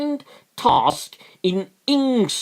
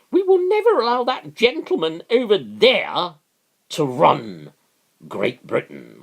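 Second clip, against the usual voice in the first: Theresa May impression. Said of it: "let's pretend it's just a bit higher pitched".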